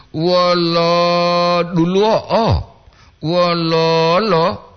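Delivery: Wololo drawn out very slowly; slow careful demo. Shown as a demonstration. Teacher repeats Wololo slowly for listeners. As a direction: stretch every syllable of Wololo. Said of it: "Jangan ada glotal di situ".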